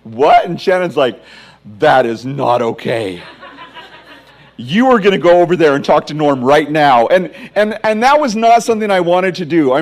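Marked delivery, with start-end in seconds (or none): 0.0-0.4 loud, high burst of disbelief; a loud baffled yelp at the note on the door; stunned what. Retold or imitated. Finds odd note on door. 1.8-7.1 laughing mock scold. Wife insists he confront neighbor.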